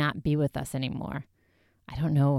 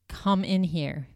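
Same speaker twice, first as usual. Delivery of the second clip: slow, deliberate ghost-box voice; slow clear spirit voice; slower than usual. Retold or imitated. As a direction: spell it out slowly like a spirit box. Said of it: "very clearly".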